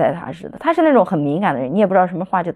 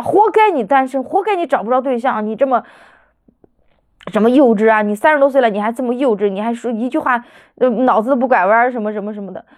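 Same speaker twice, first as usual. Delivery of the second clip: mock overbearing mother, pitch raised; imitated haughty scolding; 3 semitones higher than usual. Daughter mimics mother berating her as childish, haughty scolding. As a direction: heap on harsh reproaches in imitation. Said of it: "你知道，趾高气昂".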